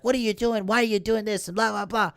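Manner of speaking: high mocking imitation of her nagging; mock yelling. Mocking Rey yelling at Poe, high put-on voice. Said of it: "she's, like, yelling at him".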